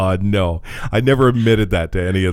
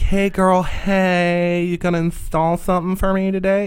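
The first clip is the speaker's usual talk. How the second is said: very high, camp flamboyant voice, drawn-out "hey"; 10 semitones higher than usual. Describing a customer by showing what he was not like: flamboyant put-on voice. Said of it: "we're not talking flaming".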